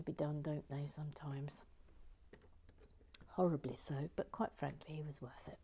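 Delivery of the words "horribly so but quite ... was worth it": softer, quietly mourning; hushed grief. Real, not acted. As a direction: say it low with feeling. Sad tribute to lost one.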